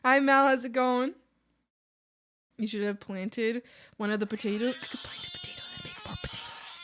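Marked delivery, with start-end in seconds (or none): 4.8-6.8 high, fast silly character voice; high quick put-on voice; odd put-on voice. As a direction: blurt the idea in a funny voice. Excited idea in odd voice.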